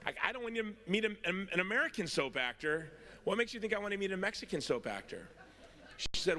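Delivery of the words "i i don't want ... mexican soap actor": exasperated. Retold or imitated. Exasperated retort.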